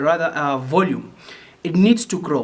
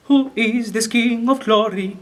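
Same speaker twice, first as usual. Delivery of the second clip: inquisitive; 6 semitones higher than usual. Shown as a demonstration. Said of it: "already sounds inquisitive".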